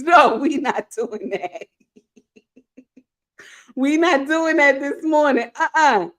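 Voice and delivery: helplessly amused, voice climbing into laughter; high-pitched, tickled refusal; laughing refusal. Real, not acted. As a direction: protest while cracking up. Cracks up at a read comment.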